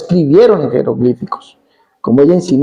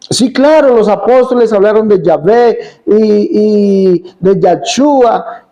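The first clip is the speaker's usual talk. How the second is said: imitating the woman; 4 semitones higher, slower than usual. Predicador imita a la señora.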